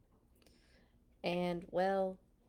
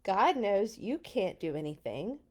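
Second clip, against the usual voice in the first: calm Moses; 3 dB louder than usual. Acted. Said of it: "Moses said".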